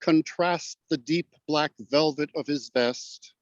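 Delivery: measured, unhurried reading of verse with pauses at line ends; poetry recitation. Acted. Guest reading his own poem to the host, measured recitation. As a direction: let each line settle before the next.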